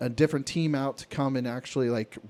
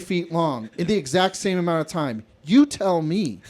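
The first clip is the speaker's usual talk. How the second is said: louder, higher mock lecture; retold exasperated scolding; 4 semitones higher, 4 dB louder than usual. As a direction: rub his face in the numbers. Scolding coworker over his work.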